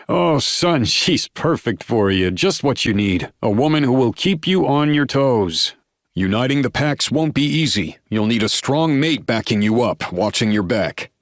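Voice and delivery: high, loud, delighted father. A narrator's reading. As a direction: beam with joy at your son. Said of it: "bursts into delighted laughter".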